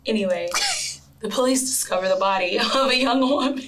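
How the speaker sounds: giggling through the words; can't stop laughing while telling it. Real, not acted. Breaking up mid-sentence.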